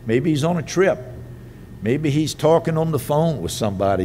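lightly mocking taunt, pitched a little up. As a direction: poke fun at them with mock suggestions. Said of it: "started mocking them and making fun of them".

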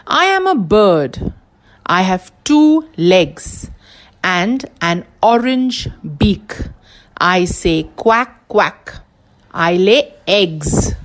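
put-on slow, careful first reading for children; slow riddle read. Shown as a demonstration. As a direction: lay out each clue slowly. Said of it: "Again, I am a bird".

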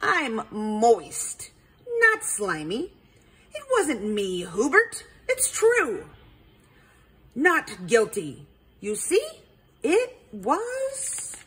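lightly croaked frog denial; a hint of a frog croak; croaky frog voice. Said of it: "Freddie croaked".

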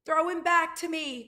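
high, loud call across the deck. A narrator's reading. Martin wants the rabbit thrown to him, calling. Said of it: "called Martin".

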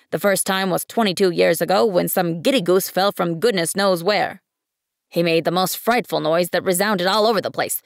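a busy man irritated at being disturbed; pompous businessman. Acted. Businessman grumbling to the little prince, brisk and important.

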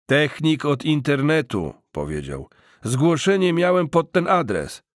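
brisk repairman announcing himself; lightly voiced technician. Technician calling through the door, lightly voiced.

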